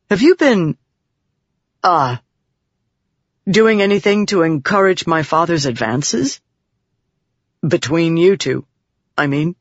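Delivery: halting, awkward question with long pauses; hesitant and mildly flustered; embarrassed. A narrator's reading. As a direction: stumble shyly into a delicate question. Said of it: "he certainly did blush a lot when he said that".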